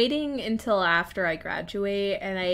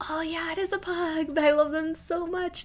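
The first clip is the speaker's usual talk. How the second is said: gushing; 8 semitones higher than usual. Retold or imitated. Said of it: "And so I'm like".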